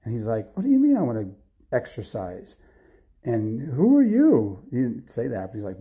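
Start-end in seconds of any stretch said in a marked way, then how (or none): 0.6-4.6 confused, questioning outburst; bewildered. Acted. Husband wakes bewildered in story.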